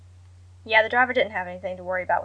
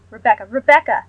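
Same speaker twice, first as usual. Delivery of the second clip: frightened shrill cry; 12 dB louder than usual. A narrator's reading. Mother panicking on the phone, shrill frightened shout. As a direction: shriek her daughter's name in panic. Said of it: "Her voice was shrill".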